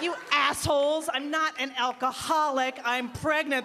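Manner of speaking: acted exasperated protest; indignant retort. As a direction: set your friends straight, affronted.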